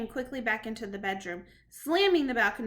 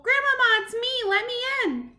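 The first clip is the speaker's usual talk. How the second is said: much higher, loud urgent calls; shouting; 11 semitones higher, 8 dB louder than usual. Acted. The boy begs his grandmother to open the door. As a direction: yell to be let in. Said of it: "I shouted as loudly as possible".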